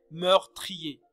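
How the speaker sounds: "meurtrier" slowly, with "i" and "er" as distinct syllables; vowels pronounced separately. Shown as a demonstration. Teacher showing a distinct emission in the example, vowels pronounced separately. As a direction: split the end of "meurtrier" into two vowel sounds, "tri-er". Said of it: "en une émission distincte".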